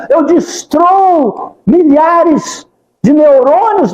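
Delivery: slow, crying confession; tearful prayer. Shown as a demonstration. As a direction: let the voice break into tears. (confissão lenta, chorando)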